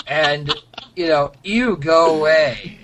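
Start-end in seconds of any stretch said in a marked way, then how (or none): 1.4-2.8 slow, laughing "ew, go away"; laughing mock disgust. Mocking guest book visitors, slow laughing disgust.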